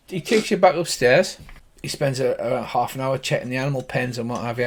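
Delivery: usual speaking voice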